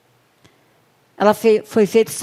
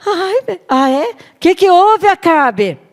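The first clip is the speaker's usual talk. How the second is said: higher, louder doting wife; fussing wife; 8 semitones higher, 5 dB louder, slower than usual. Acted. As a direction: fuss over him. Jezebel responding to Ahab.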